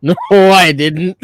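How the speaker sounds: slow, laughing no; laughing denial. Retold or imitated. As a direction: laugh while denying it. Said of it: "And I'm like".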